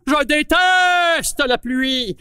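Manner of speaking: angry declaration. Acted. Apple cursing rain.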